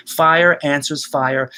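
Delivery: slow, stress on fire; slow reading of the image; slow, savoured. Shown as a demonstration. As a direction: draw the words out. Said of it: "He's got this great image".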